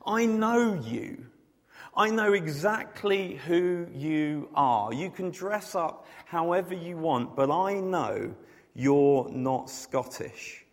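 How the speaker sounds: a hint of a knowing doorman; stern bouncer. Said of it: "They would respond with".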